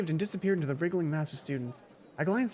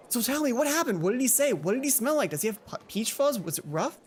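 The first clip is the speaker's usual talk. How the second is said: eager gossip; 5 semitones higher than usual. Acted. Mai interrogating eagerly.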